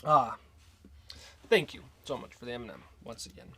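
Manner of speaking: talking through a mouthful; words around a bite of food; mouth full. Real, not acted. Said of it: "I just don't wanna talk with my mouth full".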